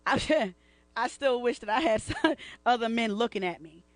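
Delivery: lightly voiced giggly wife; laughing mock quote of her; mocking a giggling wife. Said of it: "and say".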